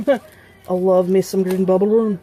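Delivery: badly faked Irish accent, drawn out slowly; attempted Irish accent. Vlogger playfully praising Green Bubble Rune, attempted Irish accent. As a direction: have a loose go at an Irish lilt. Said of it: "I can't do an Irish accent".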